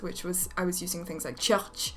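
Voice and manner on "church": "church" in a heavier French accent. Shown as a demonstration. Actor recalling her first audition voice, heavier French accent. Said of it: "just a French accent that I came up with".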